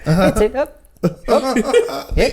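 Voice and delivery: high-pitched mock New Zealand encouragement; comic Kiwi accent through rising giggles. Comic playing a New Zealander coaching a lover, mock Kiwi accent. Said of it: "the Kiwi accent too".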